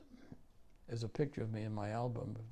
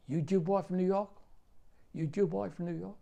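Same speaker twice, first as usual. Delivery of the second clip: loud, higher jeering call; hammed-up Southern taunt hurled at a stranger; taunting local; 8 semitones higher, 6 dB louder than usual. Local man taunting the soldier at the station, loud jeer. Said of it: "He says".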